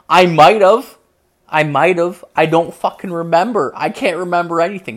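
loud, high protest; exasperated outburst, retold; worked-up protest. Acted panicked protest to mother.

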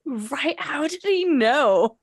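high laughing question. Real, not acted. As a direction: squeal it out laughing. Joking with listener.

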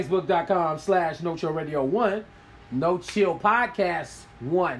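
slow announcer read; x0.5 radio announcer plug; old radio mode. Acted. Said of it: "I'm getting into my old mode".

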